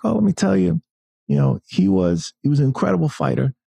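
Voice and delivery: Mike Tyson impression. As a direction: pitch way up like a famous heavyweight with a high voice. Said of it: "that's my terrible Mike Tyson impression".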